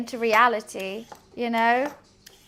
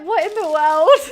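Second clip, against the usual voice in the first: mock exclamation; 4 semitones higher, 8 dB louder than usual. Retold reaction to a strange encounter.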